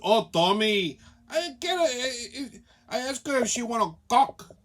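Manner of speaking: lightly mimicked bartender with a Spanish accent; broken English, imitating a Honduran bartender. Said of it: "her English is so bad".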